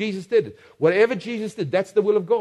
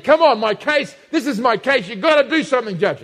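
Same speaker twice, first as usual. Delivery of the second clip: mock pleading widow; 3 semitones higher than usual. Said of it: "she pleaded".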